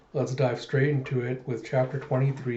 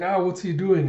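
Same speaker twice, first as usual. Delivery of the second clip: panicked cry; 6 semitones higher, 3 dB louder than usual. Retold or imitated. Man screams as face ripped.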